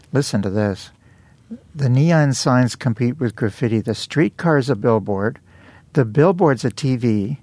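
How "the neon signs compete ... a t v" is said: lyric recitation. Acted. Reads lyrics aloud as poetry.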